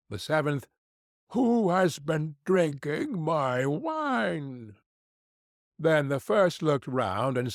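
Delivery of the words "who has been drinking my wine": slow, drawn-out dwarf voice; a little dwarf, slowly wondering. Acted. Seventh dwarf to his brothers, slow and wondering.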